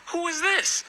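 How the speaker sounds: wondering who on earth it is; puzzled. Retold or imitated. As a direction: ask it in high, questioning surprise. Puzzled by an unexpected message request.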